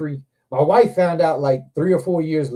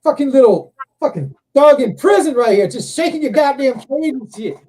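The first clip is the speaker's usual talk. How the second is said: retold taunt at the dog; 10 semitones higher, 7 dB louder than usual. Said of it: "I'm like".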